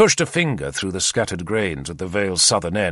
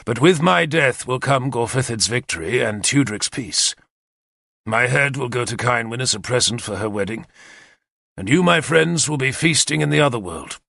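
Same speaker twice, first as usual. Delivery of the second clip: a lightly voiced commander, brisk and eager; keen war leader briefing his captains; Arthur's plan; 2 semitones higher than usual. Arthur explains the attack to his captains, eager and confident.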